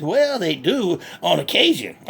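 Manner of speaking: lightly voiced country hick, cheerful and boastful; redneck Bubba. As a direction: play a proud backwoods redneck bragging. Bubba answers.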